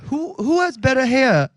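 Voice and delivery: halting put-on British accent. Asking who has better hair, shaky attempt at British accent. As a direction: try a mock British, starting high. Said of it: "His accent is killing me".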